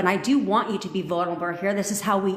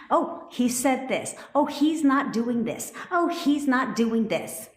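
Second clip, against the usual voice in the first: higher, slow whiny imitation; a light mock of someone fretting; mocking complainer; 5 semitones higher, slower than usual. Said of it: "Stop it".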